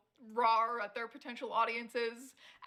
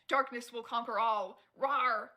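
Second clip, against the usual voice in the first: mock villain; 3 dB louder than usual. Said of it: "jokingly edgy".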